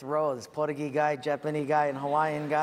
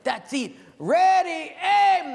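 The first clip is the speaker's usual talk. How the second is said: high, loud drawn-out military command; shouted command; 12 semitones higher, 9 dB louder, slower than usual. Acted. Commander ordering the firing squad to shoot, loud shout.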